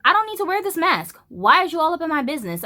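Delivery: high, sharp scolding; mock-polite then heated scolding; retold scolding. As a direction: put him in his place. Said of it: "I said".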